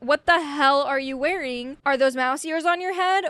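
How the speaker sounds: lightly acted disbelief at a costume; mock incredulous. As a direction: play mildly scandalized, pitch lifting on the questions. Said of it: "then he's like".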